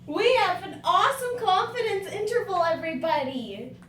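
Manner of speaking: loud, high, peppy announcement; excited. Acted. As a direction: hype the whole room. Excited team lead announcement.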